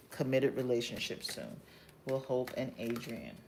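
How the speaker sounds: quiet murmur to herself; muttering under breath. Real, not acted. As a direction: mutter the question low while focusing. Reader repeats question while shuffling.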